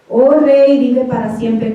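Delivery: a touch of reverent respect, first words lifted; Daniel answering the king, respectful and unbitter; respectful reply. Retold or imitated. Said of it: "con ese mismo respeto".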